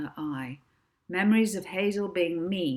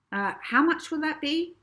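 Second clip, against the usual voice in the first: startled agent; 11 semitones higher, 6 dB louder than usual. Acted. Agent asks nervously.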